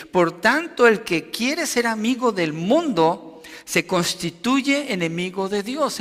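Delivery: high, emphatic scriptural warning; forceful reading. Shown as a demonstration. Preacher reading Santiago's strong words to the congregation, forceful warning. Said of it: "Es fuerte lo que le está diciendo".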